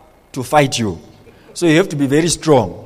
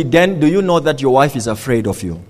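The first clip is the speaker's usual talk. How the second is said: lower, subdued voice for God; 5 semitones lower than usual. Retold or imitated. God questioning a husband about his wife, low and subdued. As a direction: bring it down low, as if heard within. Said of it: "And God said to me".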